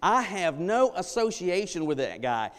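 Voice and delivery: loud, high, hammering denial; bold furious denial. Retold or imitated. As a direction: shout it as forcefully as he can. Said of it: "in as bold a way as he possibly can".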